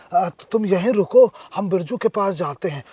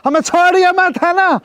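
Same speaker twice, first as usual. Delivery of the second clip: raised, theatrical dare to be beaten; higher voice, playing the victim; mock daring; 5 semitones higher than usual. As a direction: go on, kill me, says the hammed-up martyr. Boyfriend daring Aman to hit.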